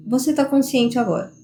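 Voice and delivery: inner voice reminder. Retold or imitated. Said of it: "É uma voz falando, assim".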